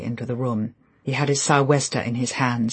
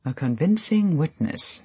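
sarcastic; 5 semitones higher than usual. Acted. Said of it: "said Colonel Julian sarcastically".

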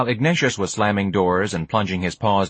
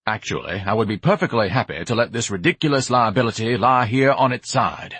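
lightly voiced haughty grandee; mildly grand, fussy disdain; pompous Ignatius, lofty; 2 semitones higher than usual. Ignatius refuses to lift his wagon, lofty pomposity.

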